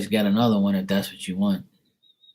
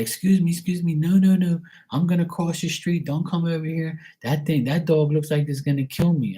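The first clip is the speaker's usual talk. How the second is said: high, panicky mock pedestrian; hammed-up frightened stranger, much higher; scared passerby; 9 semitones higher than usual. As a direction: squeal it like you're backing away from the dog. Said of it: "people be like".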